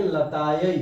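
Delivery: लतायै ending in a clear diphthong ai; लतायै ऐ की मात्रा के साथ. Shown as a demonstration. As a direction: finish लतायै on an open ai, not a plain e. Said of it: "देखेंगे य पर ऐ कर है".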